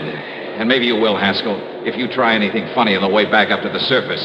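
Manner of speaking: cold threat. Acted. Detective threatening killer.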